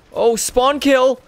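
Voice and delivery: high loud slow shout into a big laugh; gleeful shout and laugh. Real, not acted. Gamer gloating over a spawn kill, shouting then laughing.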